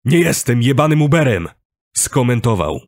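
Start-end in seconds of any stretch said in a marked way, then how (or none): 0.0-1.5 raised, indignant refusal; irritated protest. A narrator's reading. Driver objecting to giving a lift, irritated. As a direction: protest hotly with a higher voice.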